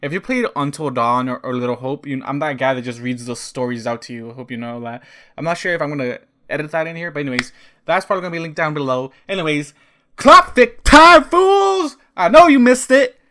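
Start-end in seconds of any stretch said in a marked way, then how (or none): 10.2-13.1 shouting, higher and louder. Starting the video with no one else home: yelling. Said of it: "I'm yelling 'cause no one's home".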